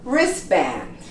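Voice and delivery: Wristband said as "risband"; silent T. Shown as a demonstration. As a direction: drop the T in Wristband. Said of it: "We don't pronounce the T in these words".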